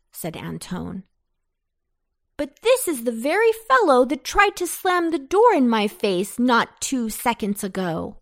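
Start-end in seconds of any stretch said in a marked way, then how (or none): 2.4-8.2 high, loud indignant protest. Acted. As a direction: protest it, outraged. Antone indignant.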